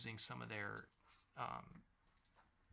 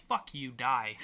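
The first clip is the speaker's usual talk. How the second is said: louder, blunt mock snarl; mock curse; 6 dB louder, slower than usual. Brothers telling Hank off, louder mock snarl. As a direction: spit it out at him, half-joking.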